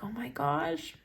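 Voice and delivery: whispered oh my gosh; touched teacher whispering to herself; awed whisper. Retold or imitated. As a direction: breathe it out in a soft whisper. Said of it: "you're like".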